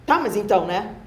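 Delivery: brisk, incisive checking questions; incisive southern manner. Shown as a demonstration. Southerner showing how people talk here, incisive. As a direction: push the question across incisively. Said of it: "bem incisivo, assim, né?".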